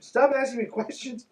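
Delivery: laughing exasperated retort. Real, not acted. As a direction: laugh through it.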